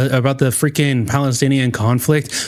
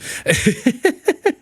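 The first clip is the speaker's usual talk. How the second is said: high, rising staccato laugh; incredulous laugh; 10 semitones higher than usual. Real, not acted. Commentator in disbelief at the guest crying, laughing. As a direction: crack up in rising bursts.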